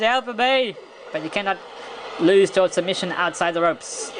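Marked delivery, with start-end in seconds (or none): 0.0-0.8 higher-pitched mock cry for help; mock scream of pain. Commentator voicing the wrestler caught in pain, mock screaming. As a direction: imitate a hurt wrestler pleading, without real volume. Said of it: "he's screaming in pain".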